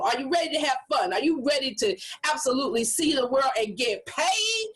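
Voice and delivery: fast, upbeat announcer rallying the crowd; hyped host. Shown as a demonstration. Host hypes the audience before the speaker, fast and upbeat. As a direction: sell it like an MC warming up the room. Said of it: "my picking up my speed and talking a little louder".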